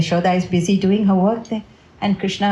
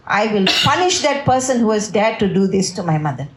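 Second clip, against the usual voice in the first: mildly voiced righteous outrage; storyteller's restrained lion roar; Balaram roaring. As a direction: proclaim your might, indignant on your brother's behalf. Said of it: "Balaram is roaring like this".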